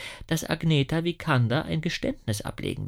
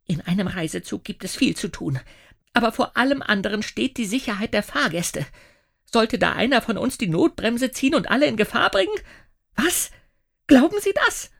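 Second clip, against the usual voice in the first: higher, ending in a loud high demand; rising outrage; 9 semitones higher, 3 dB louder than usual. A narrator's reading. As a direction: build from indignant to shrill challenge. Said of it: "heftigen Ausbruch". (Schaffnerin, empört steigernd, am Ende laut und hoch)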